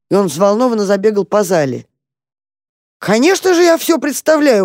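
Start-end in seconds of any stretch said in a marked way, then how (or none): 3.0-4.6 very high, eager outburst; exclaiming. A narrator's reading. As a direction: burst out with excitement. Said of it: "воскликнул крот".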